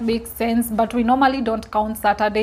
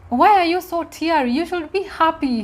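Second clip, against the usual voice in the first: higher-pitched, puzzled questioning; mock puzzlement, pitched up; imitating confused husband; 6 semitones higher than usual. Husband questioning his wife's happy tears, confused. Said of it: "and he was confused".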